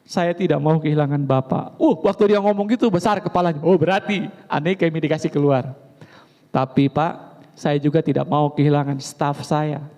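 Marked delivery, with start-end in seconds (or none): 0.0-1.8 wise and calm. Retold or imitated. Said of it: "Gembala dengan bijaksana berkata". 6.5-9.8 wise and calm. Retold or imitated. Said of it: "Gembala dengan bijaksana berkata".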